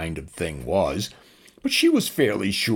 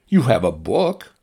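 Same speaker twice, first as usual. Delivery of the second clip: higher, firmer drone voice; reminding drone; 4 semitones higher, 7 dB louder than usual. Acted. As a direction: gently point it out. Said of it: "the drone reminded her".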